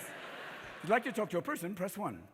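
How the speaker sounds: low, soft recorded menu voice; quiet, impersonal phone robot; automated phone menu. Acted. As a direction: recite it like a phone tree.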